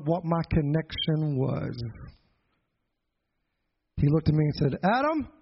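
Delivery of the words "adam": uncle checking in. Retold or imitated. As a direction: pitch it up and ask pointedly, leaving a gap after the name. Uncle checks on his nephew.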